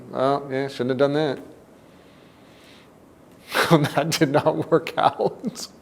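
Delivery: easy-going, amused take on shouldn't have done that; light and laughing. Shown as a demonstration. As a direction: shrug it off with a laugh, slow. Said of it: "We could say those same words in different ways".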